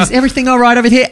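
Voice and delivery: high and very fast waiter check-in; chirpy waiter. Retold or imitated. A waiter breezing up to ask the table, high and rapid. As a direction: rattle it off like a bright waiter.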